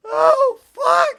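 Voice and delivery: high, loud exclamation; loud outburst. Real, not acted. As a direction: blurt it out. Laughing outburst.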